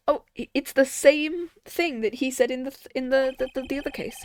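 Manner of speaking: sleepy, stumbling over words; half asleep and delirious; nodding off. Real, not acted. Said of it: "I'm half asleep".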